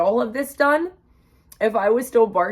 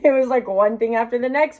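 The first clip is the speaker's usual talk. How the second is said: breaks into a laugh, a bit higher and louder; laughing exasperation; 4 semitones higher, 4 dB louder than usual. Real, not acted. Vlogger laughing to viewers about dental woes, laughing. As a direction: laugh it off in disbelief. Laughing at her bad luck.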